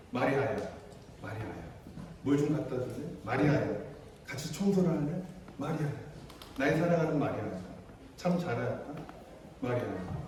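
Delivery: soft, low, tender calling of a name; softly voiced Jesus calling Mary by name. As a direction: call her name gently, like a loving friend.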